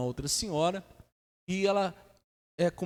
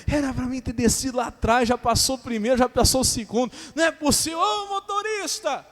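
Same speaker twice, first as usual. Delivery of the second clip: imitated angry woman; 7 semitones higher, 4 dB louder than usual. Woman whose bus passed her stops, imitated angry complaint. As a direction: play an irate passenger yelling up at the driver. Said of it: "essa mulher começou a ficar brava".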